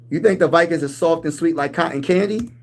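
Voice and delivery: disbelieving, rising on think; incredulous question. Acted. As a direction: throw the claim back in disbelief. Mock disbelief at rival fan.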